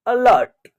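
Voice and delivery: अलर्ट opening on a short 'uh'; schwa in अलर्ट. Shown as a demonstration. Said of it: "ए का उच्चारण अ हो रहा है". (अलर्ट की शुरुआत छोटे अ से)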